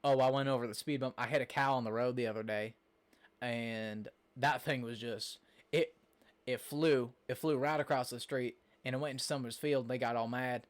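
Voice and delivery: drawling Southern US storytelling; southern accent. Shown as a demonstration. Streamer demonstrating how people further south talk, southern accent. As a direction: spin a rambling yarn in a Southern accent. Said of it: "a southern accent".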